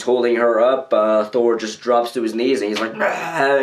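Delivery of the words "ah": restrained imitation of an anguished scream; mock scream. Retelling the hero dropping to his knees, mild mock scream. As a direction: cry out "Ah" without real volume. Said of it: "he screams out like shit".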